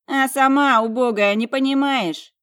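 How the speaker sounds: high, loud contemptuous snarl; bare the teeth and sneer it out. A narrator's reading. Twin sneering at her crippled sister, snarling. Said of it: "Йола оскалилась".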